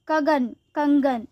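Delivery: कगन then कंगन with nasal ng, slow; wrong then right. Shown as a demonstration. Teacher models anusvara word pair slowly. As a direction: stretch कंगन to hear the nasal. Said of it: "अनुस्वार या चंद्र बिंदु लगाएं".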